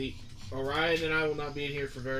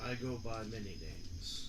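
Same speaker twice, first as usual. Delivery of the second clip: disguised deep voice; 3 semitones lower, 9 dB quieter than usual. Acted. GM voicing deep entity.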